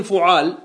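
فعال as fu'aal; damma then fatha. Shown as a demonstration. Teacher naming the vowels of the pattern, فعال said fu'aal. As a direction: say فعال with u on the f and long aa after the ain. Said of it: "بضم الفاء وفتح العين".

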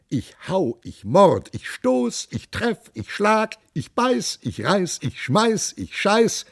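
swaggering captain working himself into a bloodthirsty frenzy; boastful captain. Acted. Captain Schissenbutz bragging to the king about his battle plans, rising boastful rant.

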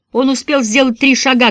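ordinary delivery

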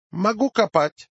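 put-on high Yiddish-accented Russian, sing-song. Job applicant answers interviewer.

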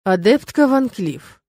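slow, measured through gritted teeth. Acted. Rector holding back anger at the student, slow gritted address. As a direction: grind the name out slowly. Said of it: "наконец процедил дракон".

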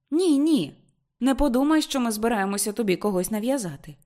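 high, loud hurried denial; mother cuts in; protesting. Acted.

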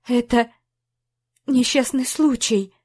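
frightened, stumbling over the words; stammering. A narrator's reading. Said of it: "Запинаясь". (запинаясь, испуганно)

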